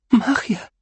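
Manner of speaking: giddy, high-pitched awe; drunk with power. A narrator's reading. Rincewind marvels at his first spell, giddy with power. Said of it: "murmuró emocionado, ebrio de poder".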